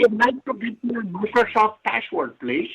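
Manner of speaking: put-on Indian accent; mock Indian-accented request. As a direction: play a caricature Indian caller. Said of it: "heard an Indian voice in the background".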